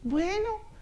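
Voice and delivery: high, soft rising reply; shy little girl. Retold or imitated. Girl accepting a stranger's chocolate offer, high and timid. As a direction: answer in a small child's voice. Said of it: "una vez una niña".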